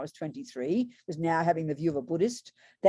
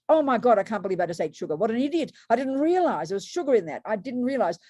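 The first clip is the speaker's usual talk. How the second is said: regretful dismay; 2 semitones higher than usual. Retold or imitated. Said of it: "that's the attitude of regret".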